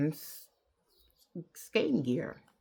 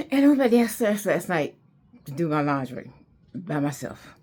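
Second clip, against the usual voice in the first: proud declaration; 7 dB louder than usual. Real, not acted. Proud brave climax.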